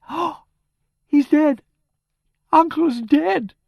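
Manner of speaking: very high, loud, distraught wail; hysterical cry. A narrator's reading. Niece learning her uncle is dead, hysterical cry. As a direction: cry out in shock, drawing out the last words.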